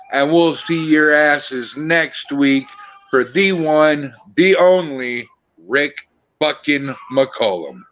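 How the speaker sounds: slow, rising big build-up; announcer intro. Acted. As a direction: hype up the guest's name. Introducing next week's guest.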